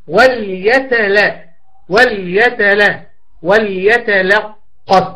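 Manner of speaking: وليتلطف drawn out slowly, the lam kept light beside the heavy ط; slow syllable demo. Shown as a demonstration. Teacher slowly sounding out a Quran word for students, light lam. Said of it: "الخطأ وارد في كلمة وليتلطف".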